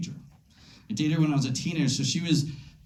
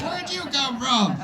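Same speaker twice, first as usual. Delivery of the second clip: mock surprise; 8 semitones higher, slower than usual. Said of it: "I'm like".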